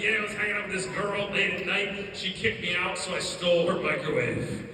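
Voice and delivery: loud, lightly cartoonish storytelling; brother's Rick voice. Brother explains stealing microwave, loud Rick-like voice. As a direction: imitate a brother bragging in a cartoon voice. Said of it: "his story sounded like that".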